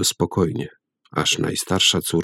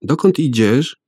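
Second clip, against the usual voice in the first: put-on high child's voice calling father; 7 semitones higher than usual. A narrator's reading. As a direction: call out to father like a worried child. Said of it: "zawołało jedno z dzieci". (wysoki dziecięcy głos, wołanie)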